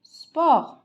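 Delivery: J'aime le sport drawn out very slowly, sport falling; teacher modelling at a crawl; slow model sentence. Shown as a demonstration. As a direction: spell it out slowly for the class to repeat. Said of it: "on dit quoi?".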